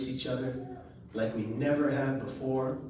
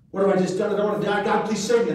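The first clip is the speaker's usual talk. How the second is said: louder, pleading cry for help; retold terror of the fall, voice raised; desperate plea; 4 semitones higher, 7 dB louder, faster than usual. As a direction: beg God not to let you die. Pleading thoughts mid-fall.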